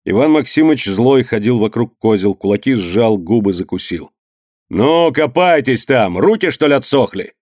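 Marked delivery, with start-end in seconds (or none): 4.7-7.3 angry shout. Acted. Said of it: "крикнул он на Паньку".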